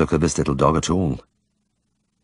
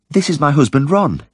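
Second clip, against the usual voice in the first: bright and higher, cheerful introduction; 10 semitones higher than usual. A narrator's reading. Wife introduces her bedridden husband to the vet, cheerfully. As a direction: proudly introduce your sick husband. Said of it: "she said cheerfully".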